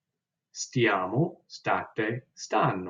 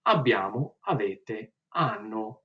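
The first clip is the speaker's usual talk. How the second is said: conjugation drill; slower than usual. Shown as a demonstration. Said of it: "So one more time".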